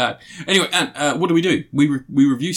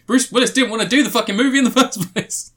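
laughing incredulous rant; 10 semitones higher, 3 dB louder than usual. Retold or imitated. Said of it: "And he's like".

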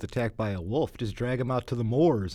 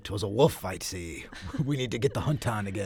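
lightly put-on Scottish accent that drifts Irish; 3 semitones lower than usual. Joking about a pipe-smoking local blaming wolves, Scottish accent. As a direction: play an old Scottish local in a wool sweater, Scottish accent with a laugh. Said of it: "Your Scottish sounds a little Irish".

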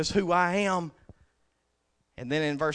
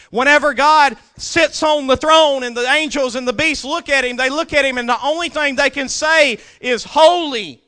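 high, loud preaching voice that rolls on; full-force preaching; 10 semitones higher, 12 dB louder than usual. Acted. Preacher to his congregation, loud full-force preaching. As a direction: lift the congregation with the throne scene.

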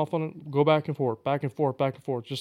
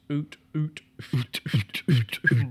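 duck call grunts; slower than usual. Shown as a demonstration. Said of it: "either hut or oot".

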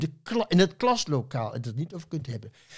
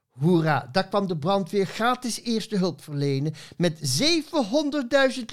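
lively rhyming read-aloud with voiced characters; poem recital; 4 semitones higher than usual. Poet reading her Schaap Veronica tribute on the radio, playful recital. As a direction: read the verse with playful, bouncing rhythm.

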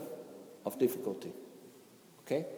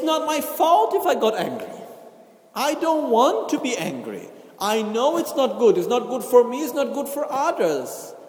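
self-justifying excuse; 5 semitones higher than usual. Retold or imitated. Teacher imitates an angry person justifying himself: mock defensive whine. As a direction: play the person blaming everyone else. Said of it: "But what we say is".

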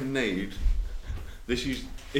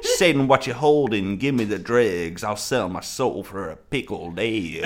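Yellow Wolf; 2 semitones lower than usual. Acted. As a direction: stretch it out in a mock performance. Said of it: "as Yellow Wolf".

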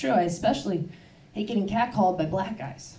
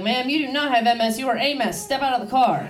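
raised, firm police-officer voice; imitated stern cop; 4 semitones higher than usual. Cop to slurring driver pulled over, imitated sternness. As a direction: order it like an unimpressed cop.

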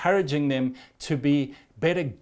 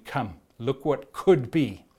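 gentle invitation; 3 semitones lower, slower than usual. Acted. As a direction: coax them gently forward. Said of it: "and saying".

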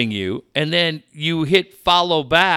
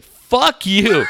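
mock yell; 4 semitones higher, 4 dB louder than usual. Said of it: "He said".

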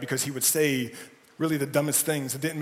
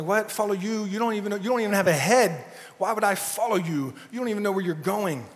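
incredulous follower; 4 semitones higher than usual. Retold or imitated.

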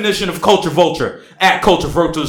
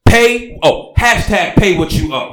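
mock passion; 2 semitones higher than usual. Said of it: "I need more dramatics".

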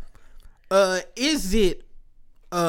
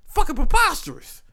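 much higher, shocked mock outrage; 10 semitones higher than usual. Retelling his own shocked reaction, high mock outrage. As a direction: squeak out the disbelief. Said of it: "I was like".

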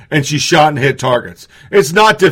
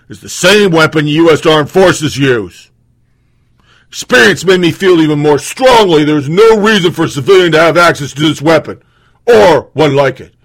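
deep voice. Retold or imitated. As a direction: read it out in a hammed-up deep voice. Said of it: "so I'm gonna do it in a deep voice".

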